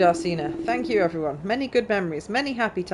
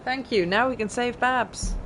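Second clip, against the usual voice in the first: a touch higher, grateful quest-giver read; lightly voiced game character; 5 semitones higher than usual. Gamer reading a character's gratitude to the hero, lightly voiced. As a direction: read the NPC's thanks as a cheery side character.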